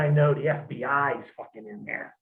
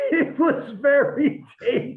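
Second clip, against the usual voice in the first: slow, higher, louder repeat of very tasty; playful slow shout; mock delight; 10 semitones higher, 3 dB louder, slower than usual. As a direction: echo it back with hammed-up relish. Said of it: "repeating with shout".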